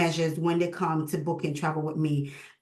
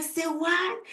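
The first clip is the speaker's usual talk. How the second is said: much higher, a mock-stunned question; surprised say what; 10 semitones higher than usual. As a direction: act the jaw-drop at the news. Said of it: "I was like".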